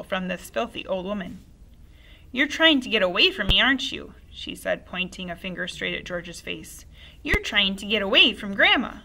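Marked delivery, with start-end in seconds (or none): 2.3-9.0 accusing grandma. Acted.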